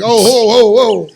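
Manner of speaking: lightly put-on Mexican accent, half-joking; mock Mexican accent. Mocking a guy about his burro, a light Mexican accent. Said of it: "am I racist for doing the accent".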